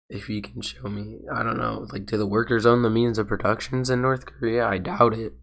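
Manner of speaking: sick, losing voice; rough, strained sick voice; hoarse. Real, not acted. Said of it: "I'm sick right now and losing my voice".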